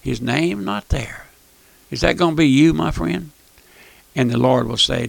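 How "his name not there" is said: softer, slowing on the second; grave hushed repeat. Acted. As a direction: let it fall quietly and heavily. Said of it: "he'll come back and he'll say".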